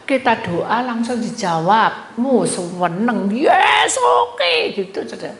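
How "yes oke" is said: high, loud mock cheer; acted jubilation. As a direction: celebrate an answered prayer with a big shout. Acting joy at answered prayer. (sorak gembira, tinggi dan keras)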